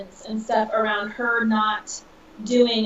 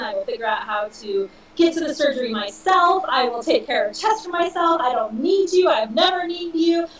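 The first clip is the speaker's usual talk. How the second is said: rising, a mock indignant tirade that climbs higher; retold outburst; 4 semitones higher than usual. Telling her mom to leave the apartment, rising mock angry tirade. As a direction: build it up like a hurt child telling her off. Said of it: "I just went off on her again".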